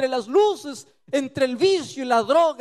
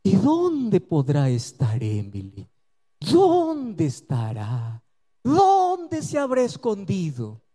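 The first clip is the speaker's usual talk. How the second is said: mock puzzled; 4 semitones lower, slower than usual. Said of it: "me paseo allí en la sala y digo".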